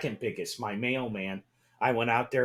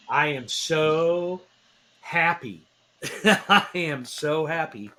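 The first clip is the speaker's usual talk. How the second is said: elated; 3 semitones higher, 4 dB louder, slower than usual. Real, not acted. Fan gushing about his team's win.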